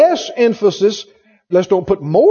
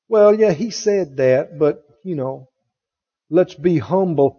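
mock false humility; 6 semitones lower, 4 dB quieter than usual. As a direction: imitate a falsely humble believer. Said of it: "people think they do".

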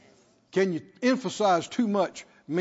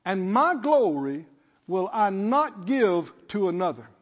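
deliberate, weighty preacher reading; measured scripture reading. Real, not acted. Preacher reads Isaiah to congregation, measured scripture reading. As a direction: give each phrase of the verse room.

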